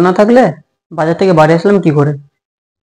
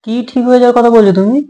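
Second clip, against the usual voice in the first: higher-pitched, indignant question; irritated challenge; 4 semitones higher than usual. Acted. Husband questions wife's soothing words, irritated. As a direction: challenge it, pitch raised in annoyance.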